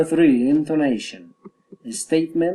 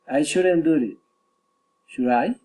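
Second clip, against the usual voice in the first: statement falls, "Should I" swings up; falling statement with a climbing "Should I" tag; rising tag question. Shown as a demonstration. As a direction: drop on "do it", then lift "Should I". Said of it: "Falling or rising intonation".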